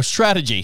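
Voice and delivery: "strategy" stressed on the first syllable with a falling tone; corrected stress. Shown as a demonstration. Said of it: "The wrong emphasis on the wrong syllable".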